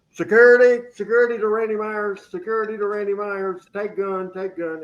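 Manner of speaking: lightly played security announcement, fading; mock dispatch call. Host jokingly sending security to Randy, mock dispatcher.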